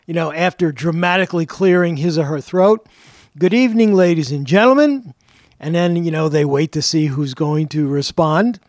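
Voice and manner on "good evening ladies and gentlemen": grand, slightly raised tour guide greeting; tour guide welcome. Shown as a demonstration. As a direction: announce it to the crowd like a yeoman warder. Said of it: "yeoman warder will say".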